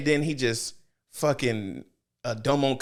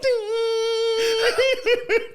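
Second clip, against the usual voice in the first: shrieking laugh. Real, not acted. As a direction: scream with laughter. Cracking up.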